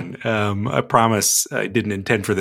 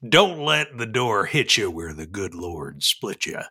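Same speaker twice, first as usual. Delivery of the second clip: cowboy dialect; 2 semitones lower than usual. Shown as a demonstration. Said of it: "I will do this in dialect".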